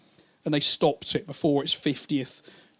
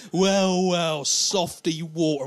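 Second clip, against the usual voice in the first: slow, drawn-out mock menace; taunting greeting; much slower than usual. Old bully spots his victim in the pub, slow taunt. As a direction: open strong, then savour the old nickname. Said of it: "and he'll go".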